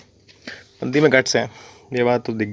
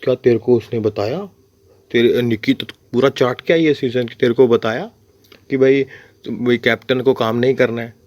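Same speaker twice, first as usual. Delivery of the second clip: gossiping aunty. Retold or imitated. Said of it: "चुगली आंटियों की तरह".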